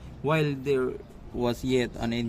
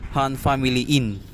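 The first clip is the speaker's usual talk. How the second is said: loud command; 3 dB louder than usual. Acted. Judge ordering the Han family into court, loud command. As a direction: call the family in with court authority.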